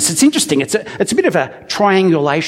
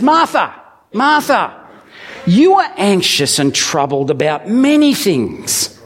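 gentle rebuke; 2 semitones higher than usual. Acted. Jesus calling Martha by name, gently, with concern.

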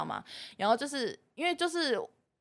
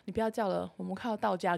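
a hint of a softer, steady voice; calm sister; 3 semitones lower, 6 dB quieter than usual. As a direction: keep it soft and level to settle her. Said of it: "她就一直很冷静说".

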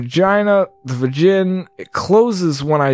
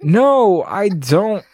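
honest reply; 6 semitones higher, much slower than usual. Acted. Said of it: "oddly honest".

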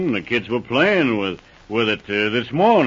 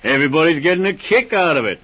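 scornful laughter; 3 semitones higher, 3 dB louder than usual. Acted. Williams mocking the Mounties.

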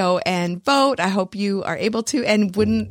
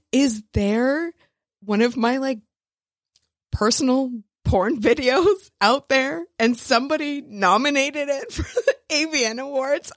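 high, giggly retold panic; laughing disbelief; 5 semitones higher than usual. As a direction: ask it half-laughing, half-freaking out. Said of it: "I was freaking out".

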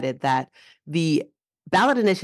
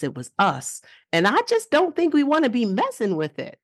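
put-on Mississippi accent. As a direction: read the quote in an amateur Mississippi accent. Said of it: "say it in my best Mississippi accent".

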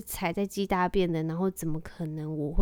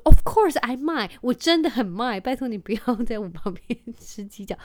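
husband's voice; 3 semitones higher, 9 dB louder than usual. Retold or imitated. Husband refuses firmly.

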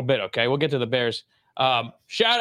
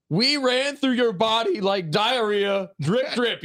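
mock hype-man chant, higher and slow; quoting Jamal Williams; 6 semitones higher, much slower than usual. Podcaster quoting a player's speech to co-hosts, hammed up. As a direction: ham up the locker room trash talk. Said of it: "I think it was Jamal Williams".

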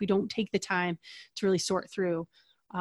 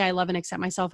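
softer, sincere affirmation; a quiet self-acceptance statement; 3 dB quieter, faster than usual. Shown as a demonstration. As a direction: say it gently to yourself. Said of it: "when we say".

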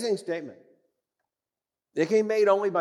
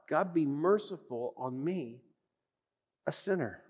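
hushed plea; 8 dB quieter than usual. Acted. Prayer repeated, hushed.

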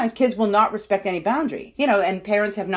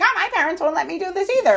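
mock teen whine; 11 semitones higher, faster than usual. Mimicking teen friends texting.

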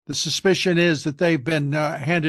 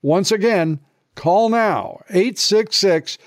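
urgent ad read, a bit louder; 3 dB louder than usual. Acted. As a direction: pitch it like a warning ad. Host reads a gold ad.

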